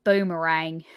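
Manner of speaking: a light attempt at an Australian accent on boomerang. Shown as a demonstration. Co-host dares her to say it in an Australian accent, a mild Australian try. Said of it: "Say it in an Australian accent".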